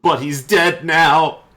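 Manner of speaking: slow, high and loud. Acted. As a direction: drag the words out slowly. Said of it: "he kinda slows down as he says it".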